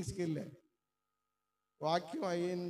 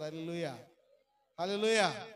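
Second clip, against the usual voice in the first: hallelujah shout; 5 dB louder than usual. Real, not acted. Preacher rousing the congregation.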